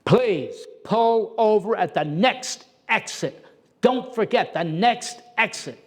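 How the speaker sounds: imitating a state trooper calling over his loudspeaker. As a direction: announce it like a trooper over a car PA. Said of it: "then he sounded like this".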